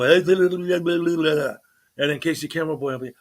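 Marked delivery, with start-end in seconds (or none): 0.0-1.6 loud, high-pitched fake-Indian-accent babble. Host imitates the cameraman's buddy answering, fake Indian accent. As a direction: rattle off nonsense in a mock Indian accent. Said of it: "they got a fake Indian accent".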